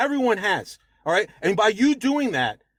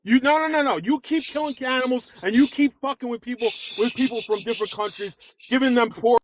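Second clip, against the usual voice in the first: heated and upset; 4 semitones higher than usual. Real, not acted. Arguing with a debate opponent who keeps interrupting, getting heated and higher. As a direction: voice climbing high and pushing harder. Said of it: "You seem very angry".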